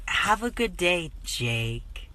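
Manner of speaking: mock-sympathetic farewell, dropping away on the name; sweetly sorry for them, imitated; pitying aw voice. Counter worker to customer after a name mix-up, pitying aw voice. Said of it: "in that sort of, aw, voice".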